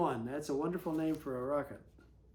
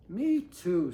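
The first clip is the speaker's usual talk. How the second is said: Louie's reply; 6 dB louder than usual. Acted. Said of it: "said Louie".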